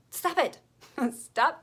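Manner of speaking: high, loud telling-off; mock scolding. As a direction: cut them off playfully and sharply. Mock scolding of listeners' excuses.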